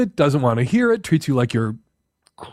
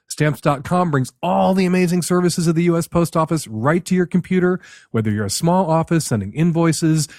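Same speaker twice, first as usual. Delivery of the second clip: brisk, upbeat sponsor read; 3 semitones higher than usual. Acted. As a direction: sell it like a radio host's ad spot. Host reads a sponsor ad.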